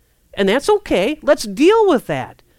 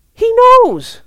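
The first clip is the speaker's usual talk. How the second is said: preaching shout; 13 semitones higher, 9 dB louder than usual. Real, not acted. Preacher exclaims about God.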